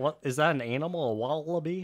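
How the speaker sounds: fake accent between New Zealand and India. Playing with accents alongside another speaker, in a fake New Zealand-Indian accent. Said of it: "mine's somewhere in between uh, New Zealand and India".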